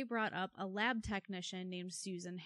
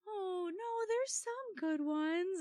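imitating coworker; 11 semitones higher, slower than usual. Coworker quoted defending men.

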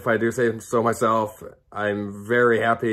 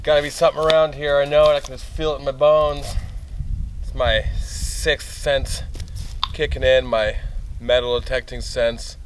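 hammed-up eager detectorist; eager treasure hunter; 5 semitones higher than usual. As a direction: act the cocky treasure hunter. Acted reenactment, detectorist searching.

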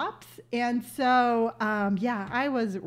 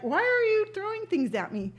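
turtle voice; 9 semitones higher than usual. Retold or imitated. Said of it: "kinda like".

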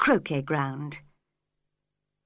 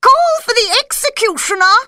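commanding shout; 13 semitones higher, 9 dB louder than usual. A narrator's reading. Queen orders executioner.

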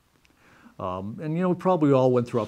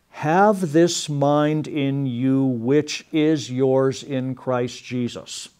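slow reading; 4 dB louder, much slower than usual. Shown as a demonstration. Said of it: "is more literal".

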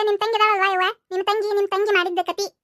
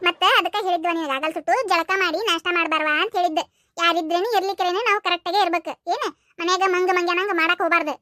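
lower, lecturing mother voice; a mother setting her daughter straight; lightly voiced stern mother; scolding mother; 3 semitones lower than usual.

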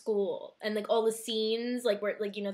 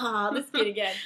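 whispered mock sigh of a priest; weary whisper. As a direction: sigh it under your breath. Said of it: "He's like".

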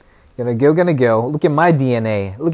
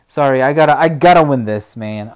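frustrated; 6 dB louder than usual. Real, not acted. Frustrated gamer losing fight.

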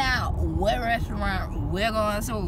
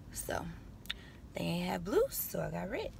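whisper; 12 dB quieter than usual. Real, not acted. Quiet aside.

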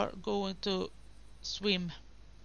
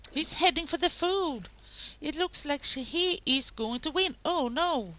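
excited race commentary; 3 semitones higher than usual. Real, not acted. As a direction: call the race like a thrilled commentator. Live excited commentary on sim race.

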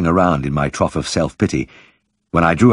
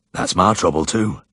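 quiet, husky murmur; soft husky voice. A narrator's reading. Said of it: "in a soft, husky voice".

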